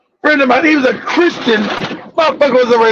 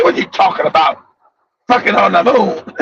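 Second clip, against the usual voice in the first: incredulous friend; 7 semitones lower than usual. Retold or imitated. Christian friend voiced, incredulous.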